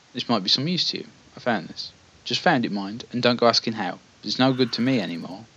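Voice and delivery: lightly voiced wiry old man; a touch of a feeble old fellow. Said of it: "wiry old man".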